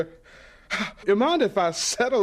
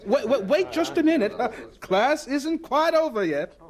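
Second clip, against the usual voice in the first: laughing, quick to call the class back; amused teacher stopping the class; 5 semitones higher than usual. Acted. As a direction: catch them before they leave, chuckling.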